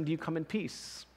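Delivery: the king facing Jehu, asking quietly; quiet question. Acted. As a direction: ask it hushed and uneasy. King asks Jehu nervously.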